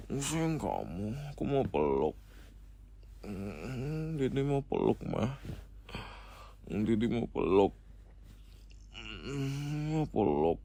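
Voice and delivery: put-on lightly babyish, swooping whiny begging; babyish pleading. Boyfriend begging his girlfriend for a hug, babyish pleading. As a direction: whine a little like a child wanting cuddles. Calls himself Dede, begs hug.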